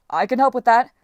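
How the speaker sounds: loud, booming giant offer; a hulking sea giant cutting in loudly; menacing giant voice. Acted. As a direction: loom in with a big brute's eagerness. Giant interrupts the goddess.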